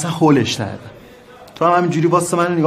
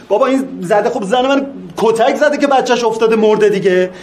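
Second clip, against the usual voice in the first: rising into a desperate shout, louder and higher; angry shout; 5 semitones higher, 3 dB louder than usual. Acted. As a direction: yell at the judge that it is obvious. Husband pleads with judge, shouting. (فریاد خشمگین و ناامید)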